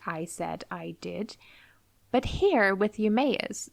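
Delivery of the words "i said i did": mock first person. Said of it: "he was like".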